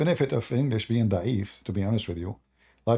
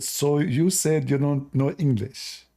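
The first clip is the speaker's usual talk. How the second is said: sergeant's question; 3 semitones higher, slower than usual. Retold or imitated. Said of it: "He said".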